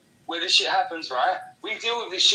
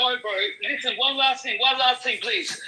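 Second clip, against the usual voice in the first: urgent plea; 6 semitones higher, 3 dB louder than usual. Real, not acted. Begging host to keep talking.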